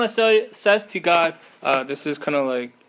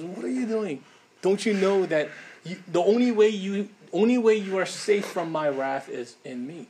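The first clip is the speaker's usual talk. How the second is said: higher, tender pleading, not angry; compassionate plea; 4 semitones higher than usual. Acted. Preacher voicing a loving God pleading, tender not angry. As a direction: ask gently like a loving God. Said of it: "a compassionate, a loving God who comes and says".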